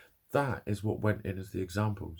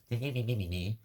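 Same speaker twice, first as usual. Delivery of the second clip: childish "mimimi" mimicry; singsong mock babble; mocking five-year-old. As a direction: mimic a whining little kid, wordlessly. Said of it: "You're a five-year-old".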